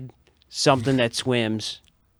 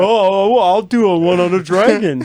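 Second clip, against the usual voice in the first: naive voice; 6 semitones higher, 7 dB louder than usual. Retold or imitated. Retelling own naive remark.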